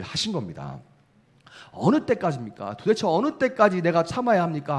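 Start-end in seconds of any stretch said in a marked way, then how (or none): 1.7-4.8 exasperated plea, rising higher; pressing God. Retold or imitated. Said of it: "계속 하나님을 몰아붙여요".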